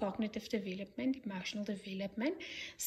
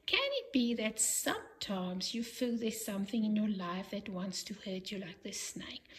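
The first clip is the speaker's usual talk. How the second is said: very gentle voice. Shown as a demonstration. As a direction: ask it tenderly, as if not to scare a child. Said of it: "in a very gentle voice ask".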